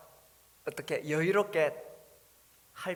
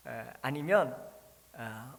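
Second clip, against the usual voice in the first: ordinary talk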